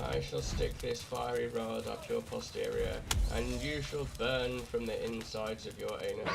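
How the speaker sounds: slow, hammed-up grand threat; overdramatic threat. Threatening the object in game, slow theatrical villain threat. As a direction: declaim it like a melodramatic villain. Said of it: "that's a bit too dramatic".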